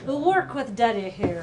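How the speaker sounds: attempted Irish accent. Shown as a demonstration. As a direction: put on an Irish lilt. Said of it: "only thing I can do in an Irish accent".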